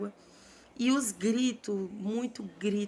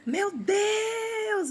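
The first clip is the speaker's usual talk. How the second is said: high, louder cry of terror; woman screaming at the wave; desperate scream; 12 semitones higher, 4 dB louder than usual. Retold or imitated. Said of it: "gritando desesperadamente".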